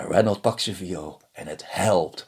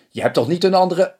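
suspicious wife; 11 semitones higher, 6 dB louder than usual. Acted. Wife suspects another woman.

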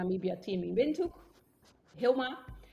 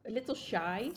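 shy whisper. Acted. Listing what Namibians are like, whispered shyly. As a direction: drop to a bashful whisper on the last words.

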